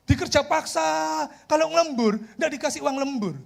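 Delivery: acted-out worker's lament; imitated complaining.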